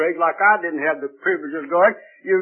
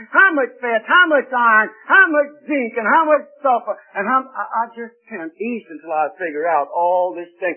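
mock bewildered guest building up; 5 semitones higher than usual.

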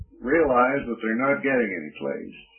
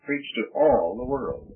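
"all" punched as the peak of the phrase; stress on all. Shown as a demonstration. Preacher repeating the commission to underline it, stress on "all". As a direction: land firmly on the word "all". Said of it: "I'm emphasizing the word all".

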